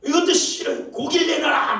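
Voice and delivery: high, loud whiny shout of complaint; mock angry demand. Preacher acting grumbling Israelites demanding meat, loud mock shout. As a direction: yell it like a spoiled crowd wanting meat. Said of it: "막 그러니".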